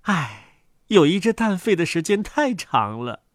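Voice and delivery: low, soft, sighing duck mother; weary brooding duck, voice dropped. Acted. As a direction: sigh it low, tired of brooding.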